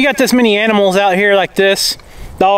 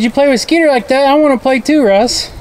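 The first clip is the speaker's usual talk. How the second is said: higher, playful dog voice; voicing the dog; 7 semitones higher than usual.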